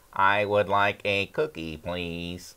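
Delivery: put-on synthetic speech voice. Showing how augmentative communication devices sound: imitating a communication device voice. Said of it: "You don't want your voice to be like this".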